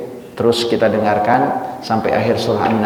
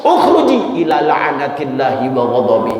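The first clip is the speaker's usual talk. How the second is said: harsh call; 3 semitones higher than usual. Shown as a demonstration. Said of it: "Intonasinya udah beda".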